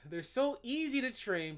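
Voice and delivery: laughing emphasis. Real, not acted. Mocking the website's claim, laughing. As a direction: laugh and lean on so.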